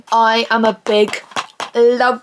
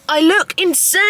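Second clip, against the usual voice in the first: amused exclamation; 5 semitones higher than usual. Real, not acted. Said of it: "do I look insane?".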